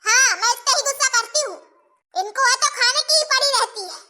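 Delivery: acted huffy retort; a touch of acted temper; mildly angry. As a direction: retort crossly before storming off. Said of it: "गुस्सा होके चली गई".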